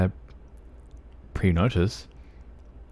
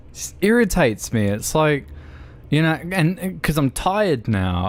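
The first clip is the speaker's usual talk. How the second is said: put-on Aussie accent; 5 semitones higher than usual. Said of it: "you with bad Aussie accents".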